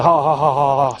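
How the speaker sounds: lightly imitated jeering laugh; mild mock laugh in spoken syllables; stupid mocking laugh. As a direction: mimic their stupid ha-ha. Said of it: "in that stupid way".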